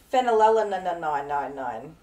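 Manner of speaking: "Phenylalanine" stretched out with a laugh; slow drawn-out pronunciation. Shown as a demonstration. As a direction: drag out the ending of "Phenylalanine". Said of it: "Can you read that?".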